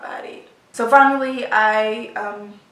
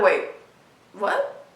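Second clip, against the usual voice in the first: stunned, unable to believe it; shocked disbelief. Retold or imitated. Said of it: "she heard the shock".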